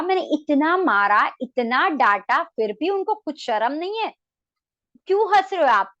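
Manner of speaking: loud, indignant scolding from the wife; angry wife. Retold or imitated. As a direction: scold him for laughing. Wife angry at laughing husband. (पत्नी की गुस्से भरी डांट)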